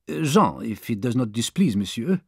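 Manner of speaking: lightly voiced French manservant, polite; a hint of a deferential young Frenchman; French valet Passepartout. Valet answering his new master, lightly voiced polite Frenchman. Newcomer Passepartout introduces himself.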